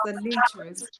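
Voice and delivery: Anitris said clearly as the correct name; name pronunciation. Shown as a demonstration. Guest correcting the host on her first name, pronouncing Anitris carefully. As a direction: model how Anitris is pronounced.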